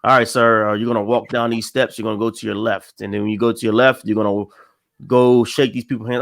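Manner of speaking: low Southern handler giving directions; rough Southern accent, deep in the register. Retold or imitated. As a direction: imitate a Southern aide, pitched well down. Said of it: "I can't do this accent".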